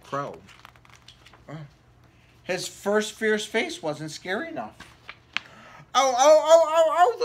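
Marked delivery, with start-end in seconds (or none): 5.9-7.2 rising alarm. Acted. Crow still coming.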